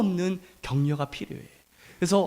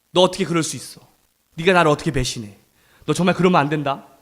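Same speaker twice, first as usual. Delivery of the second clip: brisk, understated mock reproach; mildly acted reprimand, hurried along; retold scolding; 5 semitones lower, faster than usual. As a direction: imitate a quick, low-pitched telling-off. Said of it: "이렇게 혼내셨더라면".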